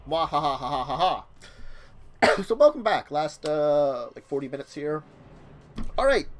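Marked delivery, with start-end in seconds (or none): 0.1-1.2 louder, quicker evil cackle; storyteller laugh. Pretend. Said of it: "a storyteller laugh".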